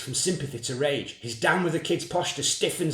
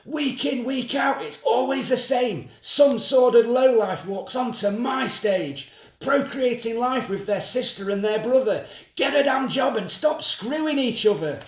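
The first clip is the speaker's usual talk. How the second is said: ranting TV host; 5 semitones higher than usual. Acted. TV host sneering at his guest, ranting. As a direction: preach down at the lowlife on stage.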